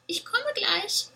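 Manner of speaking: high, slow call across the house. A narrator's reading. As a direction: call out high and drawn out to mother. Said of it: "rief die kleine Ziege".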